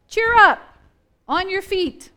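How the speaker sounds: high, loud rallying call; acted encouragement. Crowd with a change of heart urging the beggar up, high and rousing. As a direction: call out brightly to get him up. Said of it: "they have a change of heart".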